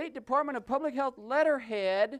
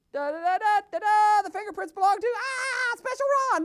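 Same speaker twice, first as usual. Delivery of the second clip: rising, louder drumroll reveal; dramatic reveal; 9 semitones higher, 6 dB louder than usual. Acted. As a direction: build to the name like a game show.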